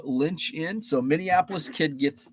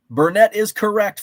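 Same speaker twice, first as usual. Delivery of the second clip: excited announcement; 5 semitones higher, 6 dB louder than usual. Real, not acted. Host announces a right guess.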